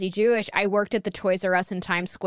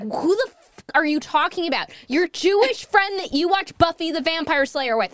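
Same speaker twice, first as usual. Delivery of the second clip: higher-pitched baffled demand; retold incredulity; 6 semitones higher than usual. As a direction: act out a friend's bewildered challenge. Friend's disbelief in retold argument.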